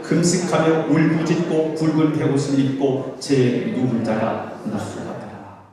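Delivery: measured, sustained reading voice; formal Bible reading; scripture reading. Acted. Reads scripture aloud.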